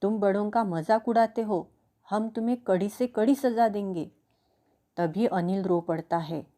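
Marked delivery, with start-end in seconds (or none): 0.0-4.1 a touch of anger, mildly raised; stern mock threat to the naughty boy; angry scolding. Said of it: "गुस्से से कहती है". (हल्के गुस्से से डांटते हुए)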